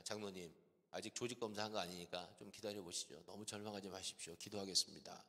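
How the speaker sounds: low, softened pastoral voice; steady a distraught man quietly; calm reassurance. Retold or imitated. Pastor retells calming the crying elder.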